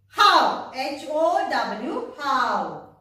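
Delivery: "how" then spelled "H O W" slowly, letter by letter, then "how" again; spelling out how. Shown as a demonstration. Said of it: "So take".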